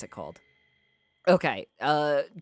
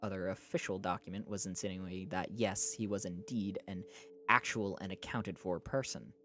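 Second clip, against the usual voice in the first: measured audiobook-style reading; story narration; 4 dB quieter than usual. A narrator's reading. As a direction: read it out as a novel's narrator. Reads a novel aloud.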